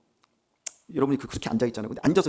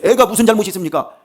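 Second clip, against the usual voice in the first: loud, raised pleading question; desperate plea; 7 semitones higher, 9 dB louder than usual. Acted. David pleading with God for his sick child, loudly acted. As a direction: ask God why the child must suffer. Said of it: "막 간절하게 울면서".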